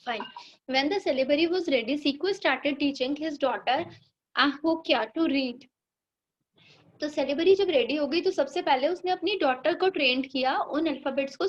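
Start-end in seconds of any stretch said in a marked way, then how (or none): 0.7-5.6 slow, careful reading aloud to a class; teacher reading the lesson line by line; slow textbook reading. Shown as a demonstration. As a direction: read each word out slowly for the pupils.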